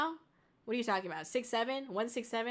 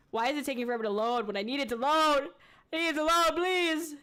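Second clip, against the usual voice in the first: exasperated pleading; faster than usual. Real, not acted. Begging a slow video to load.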